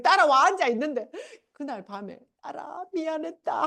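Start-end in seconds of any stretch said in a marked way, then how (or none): 2.4-3.6 higher, softer mock apology; lightly voiced mother saying sorry; retold apology. Mother apologising to her daughter that night, retold soft apology. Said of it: "우리 엄마가 해결을 하더라".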